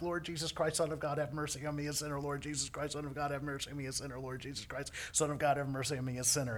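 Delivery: quick, run-on prayer on repeat; praying on a loop, hardly a breath between; rapid-fire prayer. Retold or imitated. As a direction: rattle off a desperate prayer without stopping. Rattles off prayer repeated three times.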